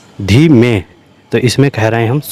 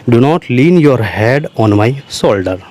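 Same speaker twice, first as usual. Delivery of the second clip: slow dictation; much slower than usual. Shown as a demonstration. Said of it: "teacher repeats phrase for learners".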